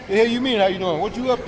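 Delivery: a hint of a suspicious New Yorker; New York dude. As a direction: play the wary New York stranger. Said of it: "Met the dude down there".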